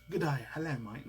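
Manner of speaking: hammed-up British greeting in a light British accent; mock British accent. Vlogger teasing British fans with a mock British accent. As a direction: toss off a jokey British accent. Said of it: "No offense to my British".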